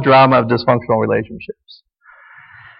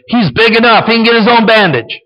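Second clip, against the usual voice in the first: mock husband, higher and a touch louder; gruff persecutor husband; 8 semitones higher, 3 dB louder than usual. Husband brushing off the hurt child, mock dismissive. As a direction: dismiss her in a lightly acted husband voice. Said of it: "stays in the persecutor role".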